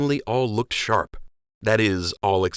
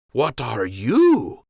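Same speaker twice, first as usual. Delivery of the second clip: suspicious surprise; 4 semitones higher, 5 dB louder, much slower than usual. Acted. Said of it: "his face hinting at betrayal".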